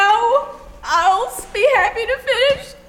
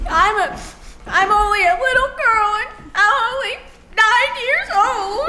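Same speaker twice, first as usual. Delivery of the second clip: frightened whimper. Acted. Scared girl near tears.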